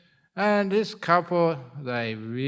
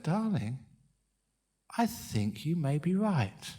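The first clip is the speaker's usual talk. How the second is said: gentle; 5 dB quieter than usual. Acted. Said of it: "He squeezed her hand gently".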